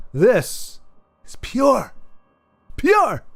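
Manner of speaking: high, proud plain American; high and emphatic, pure. Shown as a demonstration. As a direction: show off the pure accent, smug. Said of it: "this is not an accent".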